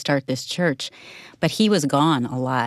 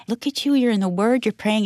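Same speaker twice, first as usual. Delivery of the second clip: high-pitched retold delight; excited admiration; 6 semitones higher than usual. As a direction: gush at him, replaying your excitement. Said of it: "I'm so excited to see him".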